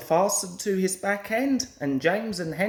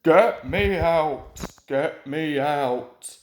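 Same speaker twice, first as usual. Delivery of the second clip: pleading; 4 semitones lower, 4 dB louder, slower than usual. A narrator's reading. Engine stuck in a ditch.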